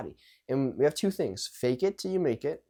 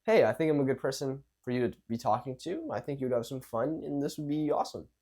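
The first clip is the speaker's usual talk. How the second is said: easy self-assured pitch at everyday height; calm, relaxed, confident. Shown as a demonstration. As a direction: offer it casually, sure of yourself. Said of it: "calm, relaxed, and confident".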